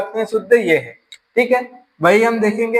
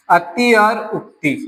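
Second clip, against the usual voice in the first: split slowly; slower than usual. Shown as a demonstration. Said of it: "तो ये क्या बनेगा?".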